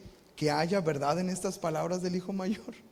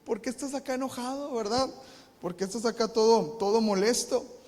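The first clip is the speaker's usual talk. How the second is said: coaxing, much higher father's voice; pleading father; 5 semitones higher than usual. Acted. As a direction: gently beg the son to come in. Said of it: "Le rogaba que entrase".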